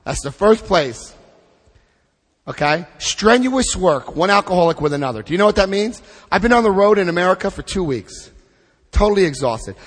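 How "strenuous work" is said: "Strenuous" drawn out slowly and stressed; slow emphasis. Shown as a demonstration. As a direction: lean on "Strenuous work" word by word. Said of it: "It also indicated that strenuous work".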